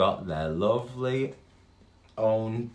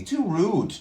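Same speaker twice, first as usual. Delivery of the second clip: squawky parrot; 11 semitones higher, 5 dB louder than usual. Acted. Parrot voiced in story.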